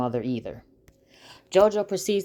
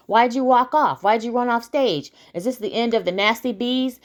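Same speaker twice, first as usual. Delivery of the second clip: lightly acted reporter, pitched higher; reporter questioning; 5 semitones higher than usual. Reporter asking a singer leaving the stage, higher, insistent questioning.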